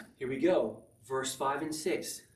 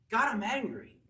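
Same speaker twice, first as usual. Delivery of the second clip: raised, higher voice, acting out frustration; hammed-up angry cry to God; mock angry outburst; 7 semitones higher than usual. Believer complaining to God, mock angry.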